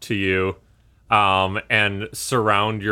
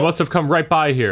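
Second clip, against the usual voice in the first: lightly voiced searcher, higher and quick; insistent pursuer; 5 semitones higher, faster than usual. Game master as pursuer pressing the rider, insistent.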